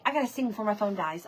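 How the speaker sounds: fast, hurried aside; rushing before cutoff. Real, not acted. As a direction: hurry before the phone dies. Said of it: "I'm rushing".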